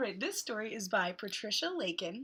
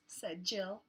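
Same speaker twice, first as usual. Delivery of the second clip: hot; much slower than usual. Acted. Reads picture book to children.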